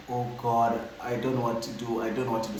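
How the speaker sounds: low, soft, defeated murmur; retold quiet despair; helpless. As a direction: say it softly, at a loss. Retold helpless moment on phone.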